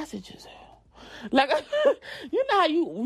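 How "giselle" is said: barely audible warning; whispered name. Retold or imitated. Mom scolding daughter under her breath. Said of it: "whisper under your breath".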